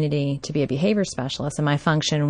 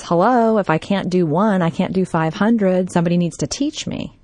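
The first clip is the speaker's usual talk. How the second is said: raised, higher voice, close to tears; retold angry outburst; 3 semitones higher than usual. Student yelling at his teacher, frustrated and near tears. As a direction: let it burst out, frustrated and upset. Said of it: "he's escalating in his voice".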